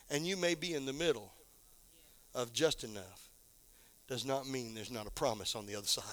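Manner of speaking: soft, low, intimate sermon voice; quiet low preacher after the shout; hushed preaching. Acted. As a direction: pull them in close, almost confiding. Drops to hushed preaching after climax.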